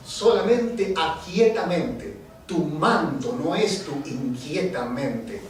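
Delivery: slow, deliberate spoken-word verse; poem recitation. Acted. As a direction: stretch out the wordplay.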